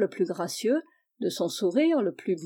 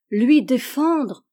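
slow, louder shocked repeat; shocked echo; 3 semitones higher, 6 dB louder, much slower than usual. Acted. Mother repeats the child's word, slowly and shocked.

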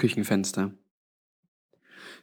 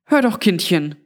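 higher-pitched grandmotherly appeal; lightly voiced Granny, pleading; 7 semitones higher than usual. (leicht gespielte Granny, eindringlich bittend)

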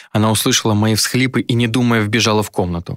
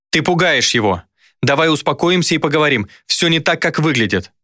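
higher, urgent woman's voice; raised-pitch appeal to reason; reasoning plea; 6 semitones higher than usual. A narrator's reading. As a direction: try to talk him down urgently. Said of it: "попыталась вразумить дядю".

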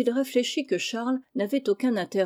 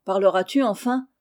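ill-tempered; 4 dB louder than usual. Acted. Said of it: "dit Olnick avec humeur".

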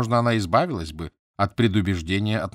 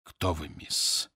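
slow, low and hoarse, like a man just coming to; a wounded captain's hoarse, halting voice; 4 semitones lower, 6 dB quieter, much slower than usual. A narrator's reading. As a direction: rasp out the question, weak and slow. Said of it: "спросил больной охрипшим голосом".

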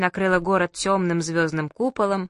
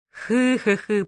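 laughing; 3 semitones higher, slower than usual. A narrator's reading. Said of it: "покатился со смеху дядя Миша".

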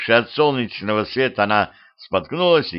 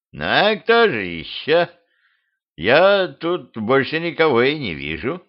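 skeleton; 4 semitones higher than usual. Acted. Skeleton answers Petrovich from the tree, skeleton voice. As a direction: voice a talking skeleton, higher than narration.

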